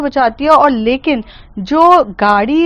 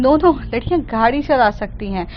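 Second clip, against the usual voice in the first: higher, rising into a scolding; angry yell; 5 semitones higher than usual. Acted. Mehar scolds the rich driver, mock angry shout. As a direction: scold her like a furious bystander. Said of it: "गुस्से में चिल्लाती है".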